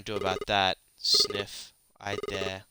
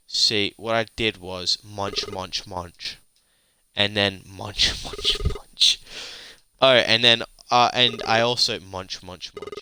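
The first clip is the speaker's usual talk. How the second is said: talking with mouth full; 4 dB louder than usual. Acted. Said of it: "Can you not talk with your mouth full?".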